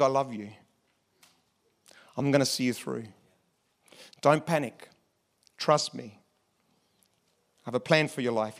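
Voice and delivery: low, soft, tender reassurance; gentle near-whisper. Acted. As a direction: speak softly and low, as God comforting someone close. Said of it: "what does he whisper?".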